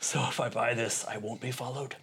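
Liam Neeson. Retold or imitated. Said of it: "Liam Neeson was fantastic".

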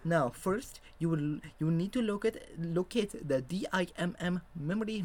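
high-pitched Indian-accented teacher impression. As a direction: lecture on in a put-on Indian accent. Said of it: "that's what he sounds like".

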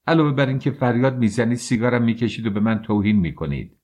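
student hitting back at the officer, harsh and fast; harsh retort. Acted. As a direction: fire the charges at him quickly. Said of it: "راسکولنیکوف با خشونت گفت".

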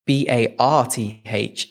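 "B A R T H" as separate letter names, slowly; spelling out. Shown as a demonstration. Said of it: "it's not spelled".

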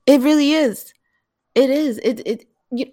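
high, loud, eager agreement; bubbling over with excitement; real excitement. Real, not acted. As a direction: agree emphatically, pitch jumping up. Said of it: "I'm sorry, I'm getting excited".

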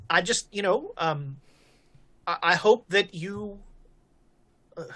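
put-on mildly nervous, halting young deputy. New deputy asks sheriff to help him learn, mildly nervous. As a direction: stumble over your words, understated nerves. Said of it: "he is super nervous right now".

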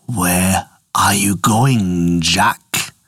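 low, very slow bull voice. Acted. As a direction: rumble it like a big bull. Bull asks Jack.

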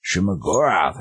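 drawn-out "Hmm", then the name with retold relish; excited recognition. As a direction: savor the find, mock-excited. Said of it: "he's, like, all excited about it".

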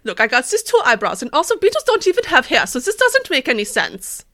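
offended character voice. Acted. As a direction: whine as the offended man. Playing offended John Senior.

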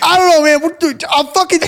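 high mock fluster; flustered friend. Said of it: "he's like".

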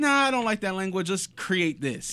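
mock objection. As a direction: wave it away, then drag out the ending. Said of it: "was somebody like".

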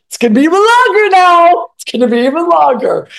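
high, loud indignant retort; replaying a snippy comeback to her husband, loud and high; mock angry snap. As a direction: fire it back at him, hammed-up. Snapping back at husband mid-fight.

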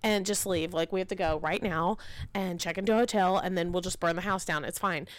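rattled-off escape plan, mildly frantic; quick, lightly panicked rambling; mile a minute. Retold or imitated. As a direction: rush through it in retold panic. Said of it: "talking a mile a minute".

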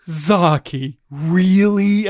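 imitating a let-down teacher, slowly; drawn-out, unimpressed questioning of a pupil; mock weary disbelief; teacher's disbelief. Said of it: "And just walked away".

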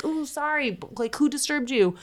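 high, solicitous quote; mock apologetic concern. Family apologises to the disturbed ghost, high mock concern. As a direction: pitch it up, fussing over the spirit.

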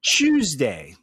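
"Tuesday" said as CHEWS-day; mock-British "Tuesday" opening on a ch sound. Shown as a demonstration. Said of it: "Do British people say".

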